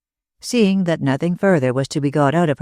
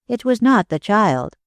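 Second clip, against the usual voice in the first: decided statement; 6 semitones higher than usual. A narrator's reading. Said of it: "she said decidedly".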